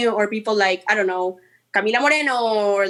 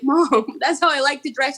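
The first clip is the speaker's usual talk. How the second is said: retold reply; 4 semitones higher than usual. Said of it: "And I'm like".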